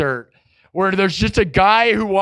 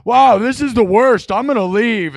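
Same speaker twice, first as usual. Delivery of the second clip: mock disgusted passerby; 3 semitones higher than usual.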